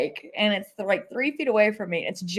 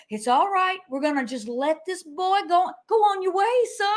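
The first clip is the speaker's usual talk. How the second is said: calm soothing; 9 semitones higher than usual. Retold or imitated. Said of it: "talking to the snake".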